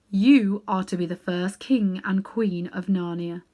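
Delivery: slow, solemn proclamation; grave lion king. Acted. Aslan names the cabby and wife king and queen, solemnly. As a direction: crown them slowly and grandly.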